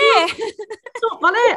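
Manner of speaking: high, drawn-out mock wail with laughter; little girl impression. Echoing the viral girl's protest, slow high imitation. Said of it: "And she goes".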